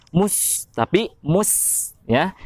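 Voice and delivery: mus with a thin, light s; thin sin. Shown as a demonstration. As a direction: keep the s of mus thin, not rounded. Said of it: "mus dengan mus itu sangat berbeda". (sin tipis)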